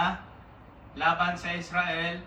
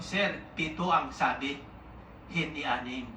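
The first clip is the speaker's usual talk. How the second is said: calm servant; 4 semitones lower, 3 dB quieter than usual. Acted. Servant calmly correcting general.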